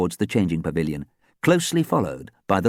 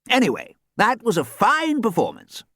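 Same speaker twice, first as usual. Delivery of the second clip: warmly; 3 dB louder than usual. Acted. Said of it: "he said warmly".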